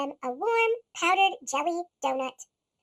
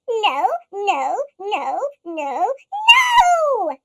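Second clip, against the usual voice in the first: shouted no; 7 dB louder, much slower than usual. Acted. The group shouting at Monster, building to a yell. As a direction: pile on the no's to a yell. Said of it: "shouted the group".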